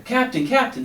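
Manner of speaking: high, loud call to the captain. A narrator's reading. Frog calls for the captain at his door, loud high call. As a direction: call up through the cabin door. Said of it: "he called".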